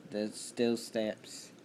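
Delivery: slow, drawn-out country accent. Real, not acted. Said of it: "I don't know why it said in country accent".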